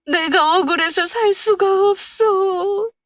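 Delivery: high, slow wailing cry to a late husband; drawn-out grieving wail; wailing lament. A narrator's reading. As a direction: sob it out at the grave. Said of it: "목을 놓아 울었습니다".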